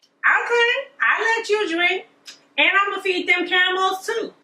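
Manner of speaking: put-on bright high-pitched young woman, eager; high girly Rebecca voice. Narrator voicing Rebecca to the servant, high and eager. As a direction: pitch it way up like a sweet young girl.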